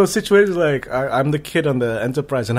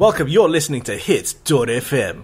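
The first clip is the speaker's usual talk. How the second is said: radio DJ voice. Pretend. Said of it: "I'll be the bumper in".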